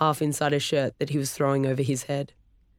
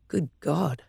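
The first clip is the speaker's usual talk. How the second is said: breathy. Acted. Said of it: "Storm breathed".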